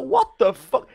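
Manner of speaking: replaying the shock of the surprise airstrike; shocked outburst. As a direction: blurt it out in laughing disbelief.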